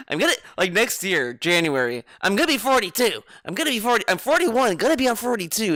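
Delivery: mock him by repeating his age brag; mocking impression. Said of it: "he says".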